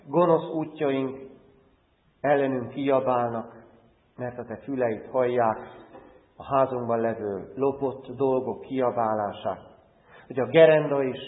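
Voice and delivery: earnest prayer in short, paused phrases; public prayer. Real, not acted. Pastor praying to God for his congregation, earnest prayer. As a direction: pray aloud for the congregation, phrase by phrase.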